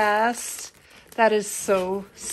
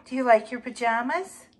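cooing sing-song pet voice, pitched up; pet talk; 5 semitones higher than usual. Real, not acted. Owner asks pet Mary about pajamas, cooing pet talk. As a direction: coo at your pet about her pajamas.

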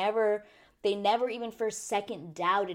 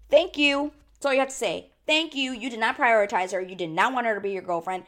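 excited cheering; 3 semitones higher, 5 dB louder than usual. Real, not acted. Cheering a friend's comeback.

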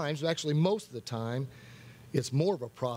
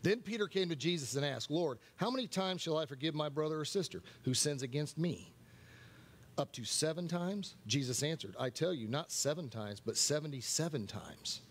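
softer, measured reading aloud; scripture reading; 6 dB quieter than usual. Real, not acted. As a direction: read the Bible passage out, more quietly.

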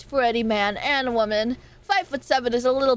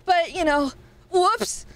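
lightly voiced tall rich guy bragging; a hint of a smug dude, playing it up; Deku voice; 2 semitones higher than usual. Streamer mocking tall guys for chat in her Deku voice, light smug. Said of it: "in my Deku voice".

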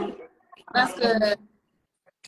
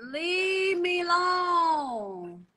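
mock plea; 3 semitones higher, much slower than usual. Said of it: "begging to be left alone".

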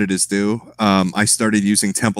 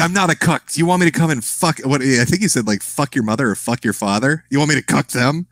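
higher mock rant; imitating an upset streamer; 5 semitones higher than usual. Mimicking the streamer defending himself to chat, higher mock rant. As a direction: play the streamer protesting, pitched up. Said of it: "He's like".

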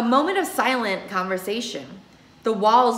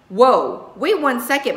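a louder, higher sudden stop; sharp interruption; 4 semitones higher, 6 dB louder than usual. Acted. Mama halting the detective questioning her daughter, loud interruption. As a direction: cut them off mid-question.

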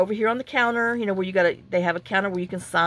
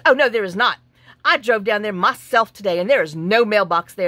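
louder, snippy mock of a rude clerk; snooty; 5 dB louder than usual. Mimicking the snooty driver at the counter, loud and curt. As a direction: imitate her curt denial. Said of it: "she gets her little snooty butt with me".

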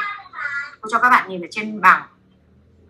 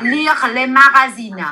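slow model phrase; slower than usual. Shown as a demonstration. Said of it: "teacher models phrase again".

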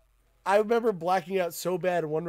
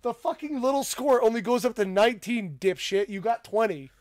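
scolding coach; 5 semitones higher, 4 dB louder than usual. Retold or imitated. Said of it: "He goes".

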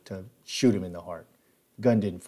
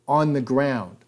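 louder firm order; firm command; 4 semitones higher, 4 dB louder, slower than usual. Retold or imitated. Hogg echoing the cop's order, firm command. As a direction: order him down.

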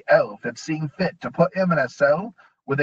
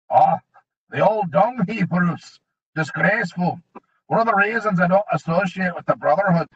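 smooth dwarf; 5 semitones higher, 4 dB louder than usual. A narrator's reading. Mulch placating.

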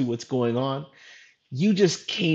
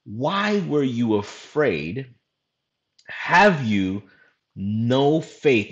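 slow, lower, weighty questioning with long pauses; dramatic reproach; 4 semitones lower, much slower than usual. Retold or imitated. Jesus to his frightened disciples, slow dramatic reproach. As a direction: let each phrase hang before the next. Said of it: "he says something really dramatic".

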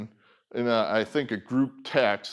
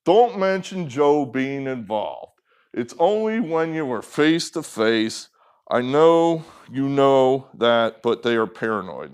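mock a kid's plodding reading; like a six-year-old; 4 dB louder than usual. Shown as a demonstration. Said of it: "not like a six-year-old".

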